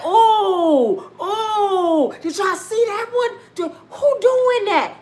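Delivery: high, loud laughing gasps of shock; mock shocked onlookers, high and laughing; laughing disbelief. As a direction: cackle in mock disbelief at the video. People reacting to videos of a rapper.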